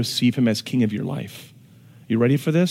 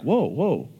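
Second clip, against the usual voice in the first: crowd freaking out; 4 dB quieter than usual. Retold or imitated. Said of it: "the crowd being super excited and then freaking out".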